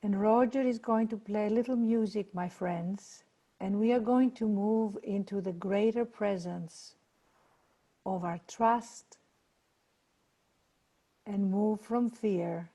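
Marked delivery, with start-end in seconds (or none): 3.6-12.7 unhurried meditation guidance, long pauses between phrases; guided meditation. Acted. Leader relaxing listeners' shoulders and jaw, guided meditation. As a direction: guide them gently from fear into calmness. Leads meditation over music.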